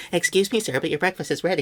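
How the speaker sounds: tiny, squeaky, high-pitched little mouse voice. Retelling a dubbed scene where a maid kneels and speaks: tiny mouse voice. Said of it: "a tiny little mouse voice comes out".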